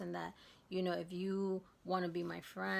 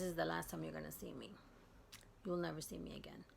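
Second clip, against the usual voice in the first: whispered threat; 5 dB quieter than usual. Retold or imitated. Telling off the man to his face.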